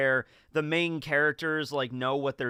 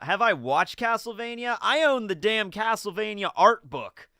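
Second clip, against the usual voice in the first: higher, emphatic echo of the question; mock-incredulous; 5 semitones higher, 3 dB louder than usual. Real, not acted. Streamer answering chat's Castlevania question, mock-incredulous. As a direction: throw it back as if the answer is obvious.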